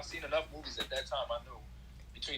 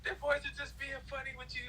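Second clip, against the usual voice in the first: mimicked doting mother, pitched way up; imitated teammates' mom; 12 semitones higher than usual. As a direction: play a mom waving off her boys. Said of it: "She's like".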